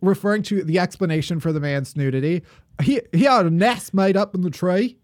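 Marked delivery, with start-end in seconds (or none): 2.8-5.0 put-on botched Australian accent. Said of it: "you sound like a drunk Southerner trying to do a British accent".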